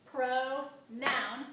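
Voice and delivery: "Pronoun" in two loud beats, landing on "noun"; accent on second syllable. Shown as a demonstration. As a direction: chant "Pronoun", stepping hard onto "noun". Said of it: "step on the second syllable".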